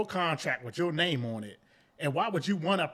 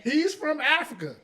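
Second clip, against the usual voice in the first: mock high voice; 10 semitones higher, 6 dB louder than usual. Same mock voice again.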